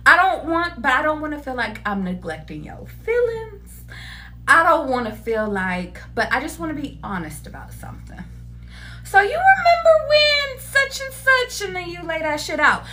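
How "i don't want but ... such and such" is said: serious gentle lead-in. Shown as a demonstration. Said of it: "just be like".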